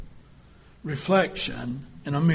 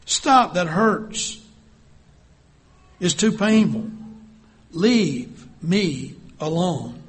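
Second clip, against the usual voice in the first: crying out in pain; slower than usual. Acted. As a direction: beg the potter to stop. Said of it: "I cried out".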